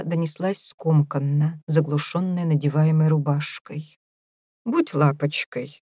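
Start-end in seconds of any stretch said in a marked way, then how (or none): 4.6-5.8 slow, lightly camp and coy. Acted. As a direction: put on a mild camp sweetness. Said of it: "надевая маску гомосексуалиста".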